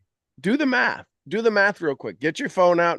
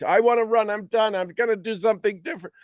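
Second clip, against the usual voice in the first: panicky student; 6 semitones higher, faster than usual. Retold or imitated.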